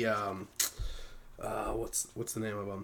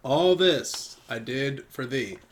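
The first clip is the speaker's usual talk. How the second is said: slow title reading; slower than usual. Shown as a demonstration. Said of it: "This first one is called".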